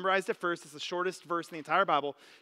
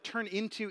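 "turn into" singled out, set apart and slowed; stress on turn into; 3 semitones higher, 4 dB quieter than usual. Shown as a demonstration. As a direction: lean on "turn into" as the key word. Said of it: "The word, like".

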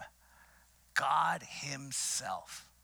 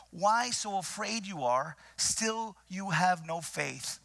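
Yoda-like phrasing; 4 semitones higher than usual. Retold or imitated. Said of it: "they spoke like Yoda".

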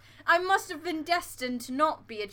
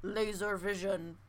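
robot voice. Pretend. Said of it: "do the bit".

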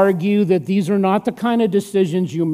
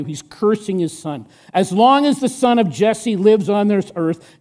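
Saul's anger. Acted. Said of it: "Saul's anger flared up at Jonathan".

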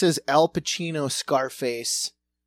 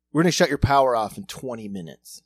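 put-on Cuban accent; 4 semitones lower, 3 dB louder, faster than usual. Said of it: "ham steak Cuban accent".

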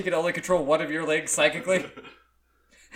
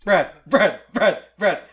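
calling out; 8 dB louder, slower than usual. Real, not acted. Calling a friend to join.

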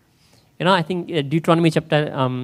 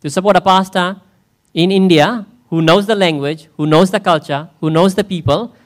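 building preach; 2 semitones higher, 5 dB louder than usual. Acted.

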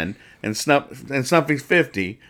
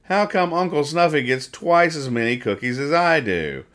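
higher-pitched comic-strip complainer, lightly done; lightly voiced Jughead; 5 semitones higher than usual. Jughead complaining about Uncle Snuffy's cookies, lightly voiced in a higher pitch. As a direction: lightly act a character protesting an unfair share. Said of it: "And then Jughead says".

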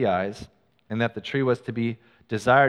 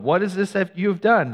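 higher, louder demand; indignant question; 7 semitones higher, 4 dB louder than usual. Acted. God confronting the woman over the fruit, indignant. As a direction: confront her with disbelief.

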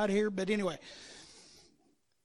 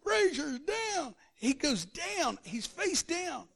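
slow, drawn-out, high announcer call; sportscaster calling a knockout; Howard Cosell; 6 semitones higher, slower than usual. Retold or imitated. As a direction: stretch every word like a ringside commentator. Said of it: "Can you hear Howard Cosell".

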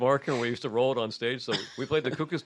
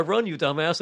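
urgent mock yell; 2 semitones higher, 4 dB louder than usual. Bandmates fleeing yell at their frozen drummer, urgent mock yell. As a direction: yell it as a panicked order.

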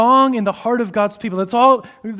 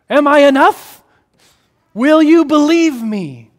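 God pleading; 8 semitones higher, 10 dB louder than usual. Acted. Preacher voicing God to his wandering people, loud pleading cry. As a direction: cry out the question as a hurt God.

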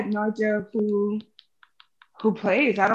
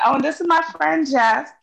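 imitating Flash; 5 semitones higher than usual. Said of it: "why did it sound like Flash?".

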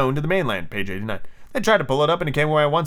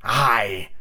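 lightly voiced villain captain; drawn-out captain voice; pirate captain; 2 semitones lower than usual. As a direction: answer as a drawling pirate chief. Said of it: "Captain said".

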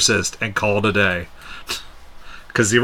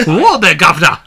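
higher, louder hammed-up old-timer voice; silly character voice; 6 semitones higher, 6 dB louder than usual. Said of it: "You sound like you're having a fucking stroke".

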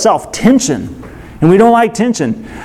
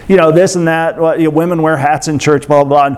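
offhand rambling; 4 semitones lower than usual. Retold or imitated. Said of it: "He's just like".

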